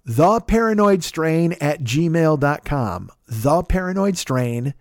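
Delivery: "The" drawn out and set apart, address spelled out slowly; stress on THE. Shown as a demonstration. Podcaster correcting an email address for listeners, stressed THE. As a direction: lean hard on a slow, distinct "The". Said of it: "I didn't think there was a the".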